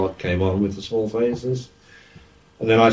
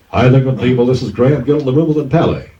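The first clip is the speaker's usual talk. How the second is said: louder DJ greeting to the crowd; DJ announcement; 3 semitones higher, 6 dB louder, faster than usual. Retold or imitated. DJ greeting the crowd at the Wimbledon Palais, announcer style. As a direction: re-enact a dance hall DJ's intro. Re-enacts his dance hall DJ announcement.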